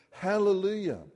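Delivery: Hallelujah cried out high and loud; shouted hallelujah. Acted. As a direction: shout Hallelujah like a crowd in heaven.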